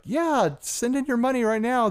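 high-pitched mock puppet pledge-drive voice; Big Bird. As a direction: pitch way up, half-hearted character impression. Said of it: "Is that your Big Bird voice?".

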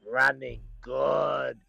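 tipster's confident drawl. Retold or imitated. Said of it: "and he goes".

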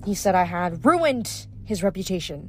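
bitter, scornful sorceress; resentful and proud. Acted. Pasiphae tells her grievance.

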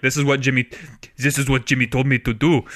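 mock French accent, lightly done; a jokey French accent on a teammate's line. Podcaster doing a French accent for a player's quote. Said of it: "that's my best French accent".

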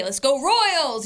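lightly chanted, words stretched out; fan cheer. Shown as a demonstration. Showing how fans root at the K, mild cheer.

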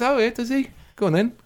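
high, eager and nosy; high excited gossip; mock eager. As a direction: egg him on like a gossip. Quoting own eager reply.

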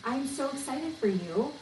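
bright, high excited congratulations; excited for them. Retold or imitated. To a teammate who is leaving, high excited congratulations. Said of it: "I say".

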